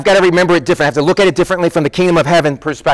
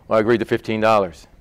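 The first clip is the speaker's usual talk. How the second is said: low, soft, quick concession; reluctant admission; 10 semitones lower, 6 dB quieter, faster than usual. Acted. Kid answering what did you agree to, sheepishly. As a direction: own up grudgingly, voice dropped.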